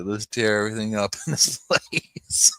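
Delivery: laughing through a mock dog line. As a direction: let the laugh break into the words. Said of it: "He's like".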